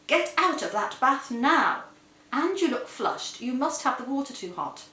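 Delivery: a hammed-up stern husband yelling; husband calling out. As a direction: bark orders at the daydreamer. Husband barking through bathroom door.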